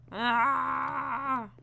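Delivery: long, high, loud "aah"; drawn-out cry. Pretend. Impatient cry on long run back.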